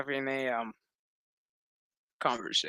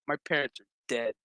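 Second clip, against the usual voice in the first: flat, fast, soft deadpan; stone-faced deadpan; 3 semitones lower, 4 dB quieter, faster than usual. Retold or imitated. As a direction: say it with a stone face, giving nothing away. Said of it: "stone faces".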